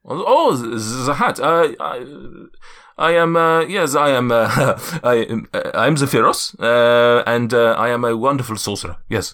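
lightly voiced, flustered giant sorcerer; Zephyros. Giant asked about his hat, stumbling accented giant voice. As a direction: stammer through it in a slight foreign accent. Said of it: "my accent's just all over the place".

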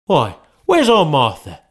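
a father eagerly looking round; Bob calling out. Acted. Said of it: "cried Bob Cratchit".

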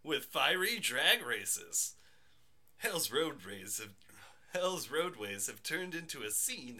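excited news read, like a pitchman. Acted. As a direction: read it like a hyped news anchor. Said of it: "you like my news voice".

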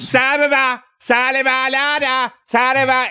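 put-on slurred high drunk mumble. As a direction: imitate a sloppy drunk guest, high. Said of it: "Drunky Drunkersons will be like".

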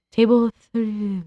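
slow mumbled words; "Table three" slurred and mumbled; mumbling. Retold or imitated. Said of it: "he goes".

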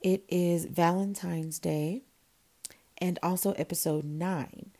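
slightly worn, tired speaking voice. Real, not acted. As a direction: talk through a tired, sung-out voice. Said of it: "And excuse my voice".

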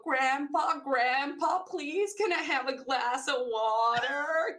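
put-on a light British child accent, slow and pleading; childhood British accent. Kids asking grandpa for water in a mild British accent. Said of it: "he just loved our accents".

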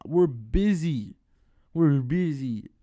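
loud, drawn-out insistence; exasperated. Retold or imitated. Worker telling the manager why they only nod, exasperated. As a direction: drag out each word to drive it home.

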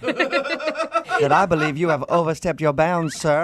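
slow, high mock Southern belle accent, laughing. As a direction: ham up the offended Southern belle. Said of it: "Southern accent".

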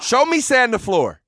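high, slow emphatic sensei order; Mister Miyagi. Acted. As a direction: raise the command, stretching each word. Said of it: "Thank you, Mister Miyagi".

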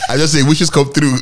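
cracking up while talking; laughing. Real, not acted. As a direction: get the joke out through laughter. Cracking up at own Wish joke.

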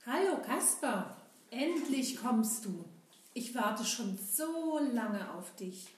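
put-on slow, childlike puppet friend; a lightly voiced, slow-talking boy puppet; Seppel puppet voice. Seppel puppet greets Kasper.

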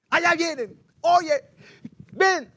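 loud, high-pitched hail; calling out. Acted. Man spotting the brothers in the plaza, calling out. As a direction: call them over urgently.

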